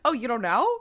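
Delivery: lightly imitated catty question; a touch of mock surprise; bitchy. Anna taunting Dean in a retelling, mildly bitchy. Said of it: "says it in a really funny, bitchy way".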